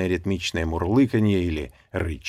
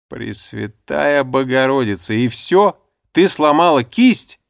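high, loud incredulous outburst; surprised; 6 semitones higher, 9 dB louder, slower than usual. A narrator's reading. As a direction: blurt it in sheer disbelief. Relieved disbelief at news.

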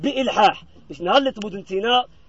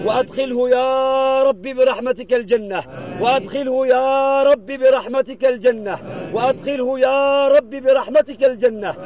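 chanted prayer with held syllables; intoned supplication; 3 semitones higher than usual. Acted. Imam leading mourners in pleas for the deceased, intoned supplication. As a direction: plead insistently in measured, level-toned phrases.

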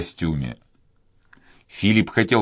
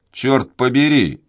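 крик; 5 semitones higher, 3 dB louder than usual. A narrator's reading. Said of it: "закричал Данник".

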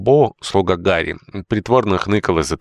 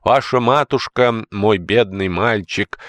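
higher, slow mock pity; sardonic pity; 5 semitones higher, slower than usual. Old housekeeper pities George with sardonic scorn. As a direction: pity him with a sneer. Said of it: "с наигорчайшим сардоническим смешком".

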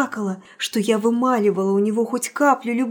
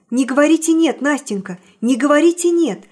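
urgent plea; 4 semitones higher, 5 dB louder than usual. Acted. Pleading with Nastenka.

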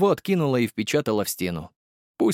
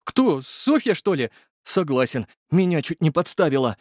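put-on high, outraged young voice; indignant driver; 6 semitones higher than usual. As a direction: huff it out, high. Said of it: "возмутился Игорь".

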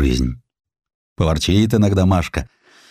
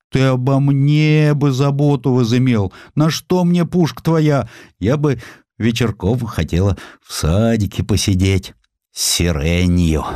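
higher, pouty complaint with pursed lips; a young wife sulking over the cannon; pouting wife; 5 semitones higher than usual. Acted. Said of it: "А жена даже обиделась, сложив губки бантиком". (обиженно, надув губки)

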